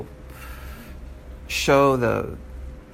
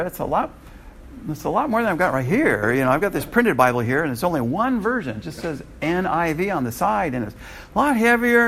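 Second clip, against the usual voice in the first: lightly raised, whiny excuses; a hint of a defensive phone reader; mock excuse voice; 6 semitones higher than usual. Teacher mimicking a phone reader's excuses, mild mock voice.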